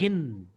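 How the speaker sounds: "gin" alone, drawn out and falling; stressed syllable. Shown as a demonstration. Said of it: "আমি press-, pressure দিচ্ছি". ("gin"-এ চাপ দিয়ে টেনে বলা)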